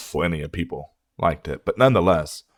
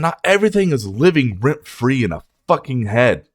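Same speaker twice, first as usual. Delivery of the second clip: fed-up rant; 4 semitones higher, 3 dB louder than usual. Real, not acted. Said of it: "getting fucking sick and tired of it".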